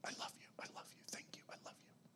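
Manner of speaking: soft whisper of love and thanks; a believer whispering to God, hushed; whispered prayer. Shown as a demonstration.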